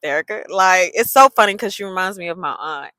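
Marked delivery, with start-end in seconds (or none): 0.0-0.5 quick hushed calling of a name; quick, low nervous calling; trainer calling. Retold or imitated. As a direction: trainer hushing her by name. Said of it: "then my trainer like".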